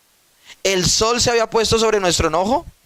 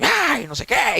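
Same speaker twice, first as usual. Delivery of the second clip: mock yelling; 5 semitones higher, slower than usual. Preacher re-enacting a fight with his wife, mock yelling. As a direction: imitate a raised voice in a quarrel. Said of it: "y gritando".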